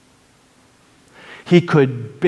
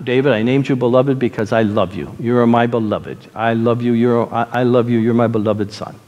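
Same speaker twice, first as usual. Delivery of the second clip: lower, gentle reassurance to a son; tender fatherly affection; 5 semitones lower than usual. Retold or imitated. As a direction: tell a beloved son you love him, low and steady. Tells son he is beloved.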